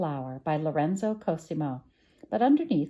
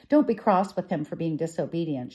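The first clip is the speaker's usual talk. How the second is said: pleading; 5 dB louder than usual. Acted. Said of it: "she pleaded".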